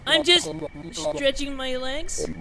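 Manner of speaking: high, drawn-out evasive wimp voice; wimpy kid. Acted. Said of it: "I made him sound like a little bitch".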